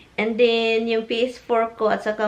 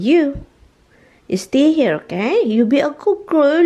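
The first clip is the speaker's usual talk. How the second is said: firm command; 3 semitones higher, 5 dB louder than usual. Real, not acted. Ordering dog to stay.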